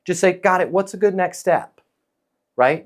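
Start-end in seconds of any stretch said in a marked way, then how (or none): 0.3-1.8 non-pushy, unruffled acknowledgement; calm, neutral. Shown as a demonstration. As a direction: accept it calmly, no pressure. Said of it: "very calm, very neutral, non-pushy tonality".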